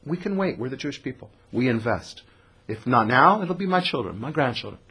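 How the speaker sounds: softly spoken, in no rush at all; hushed, patient reassurance; quiet patience. Acted. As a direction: play the long game, quietly. Jacob voiced as patient, against Esau.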